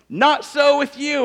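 slow, loud, high declaration; emphatic Jesus. Retold or imitated. Jesus tells the ambitious disciples, firm and slow. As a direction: lay down the rule firmly, slowly. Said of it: "Jesus goes on".

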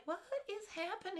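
high, soft, helpless cry; mock bewilderment. Goldie watching the boys fight, mock bewildered. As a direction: pitch it up in baffled dismay.

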